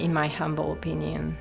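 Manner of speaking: ordinary talk, nothing marked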